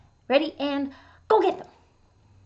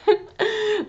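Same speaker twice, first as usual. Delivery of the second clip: getting louder; 8 semitones higher, 11 dB louder than usual. Acted. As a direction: roar swelling to shout. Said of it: "you could do even better".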